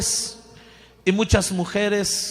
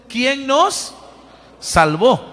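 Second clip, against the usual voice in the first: louder, reading aloud together; 3 semitones higher, 4 dB louder, much slower than usual. Shown as a demonstration. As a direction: lead the congregation reading it loudly. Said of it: "lo leemos fuerte". (lectura en voz alta y fuerte)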